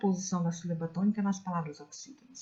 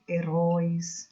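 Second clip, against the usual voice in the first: "Heróis" with a long, strong RÓIS; stressed last syllable; 3 dB louder, slower than usual. Shown as a demonstration. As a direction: lean on the final RÓIS of "Heróis". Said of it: "sílaba tônica está na última".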